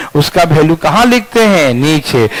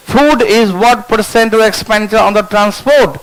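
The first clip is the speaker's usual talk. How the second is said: slow dictation; 3 semitones higher, much slower than usual. Shown as a demonstration. Teacher rereads question slowly.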